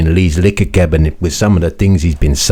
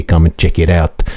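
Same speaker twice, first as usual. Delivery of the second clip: usual speaking voice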